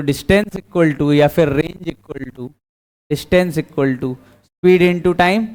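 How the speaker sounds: slow, spaced-out formula dictation. Shown as a demonstration. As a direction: spell out the formula word by word for the class. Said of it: "teacher dictates formula slowly". (धीमे-धीमे formula बोलना)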